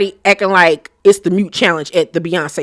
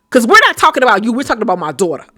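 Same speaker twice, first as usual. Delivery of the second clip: rising into a yelled shut the fuck up; retold angry outburst; 3 semitones higher, faster than usual. Evelyn yelling at Denise to stop interrupting, heated. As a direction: mimic Evelyn snapping at Denise. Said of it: "Evelyn ... was like".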